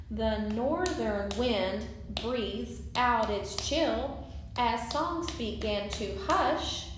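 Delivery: measured poem line with beats on "wind", "chill" and "hush"; clap-along verse reading, stressing key syllables; rhythmic stressed reading. Shown as a demonstration. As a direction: read it to the beat, leaning on "hush". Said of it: "putting certain syllables over others".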